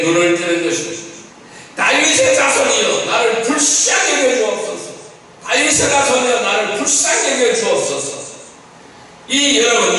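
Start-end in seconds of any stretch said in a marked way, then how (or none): 1.8-4.9 higher-pitched plea, slightly raised; mild crying out. Acted. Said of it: "더 크게 소리 지르는 거예요". 5.5-8.2 repeated plea, starting high and settling; mild crying out. Acted. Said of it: "더 크게 소리 지르는 거예요".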